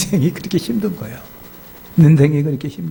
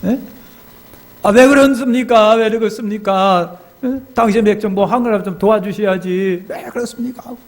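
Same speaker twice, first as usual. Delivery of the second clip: put-on tearful drunken complaint; 7 semitones higher than usual. Drunk deacon protesting to his pastor about God, mock tearful. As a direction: imitate a drunk man wailing his questions. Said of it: "울다가 웃다가".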